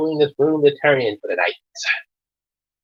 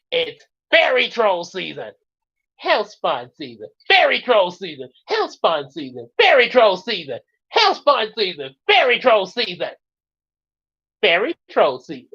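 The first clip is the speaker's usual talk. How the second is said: cartoon bickering; 5 semitones higher than usual. Acted duck season, rabbit season argument.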